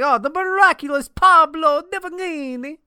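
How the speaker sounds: high, loud mock stage-magician introduction; fifties magician. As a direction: announce a magic act with hammed-up grandeur. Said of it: "should be a magician in the fifties".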